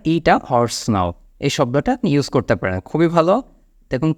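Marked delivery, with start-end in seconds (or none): 0.1-1.1 very slow, each word stretched; the better idiom, drawn out; slow idiom version. Shown as a demonstration. Teacher offering the idiom instead, very slowly. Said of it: "আপনি বলতে পারেন".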